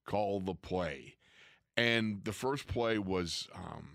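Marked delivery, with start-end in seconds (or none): 0.0-1.2 slow, dead-level growl of a line; dead Dirty Harry voice. Retold or imitated. Webster to the coach, a slow dead Dirty Harry voice. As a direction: say it flat and slow, like Clint Eastwood. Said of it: "in a dead, Dirty Harry voice".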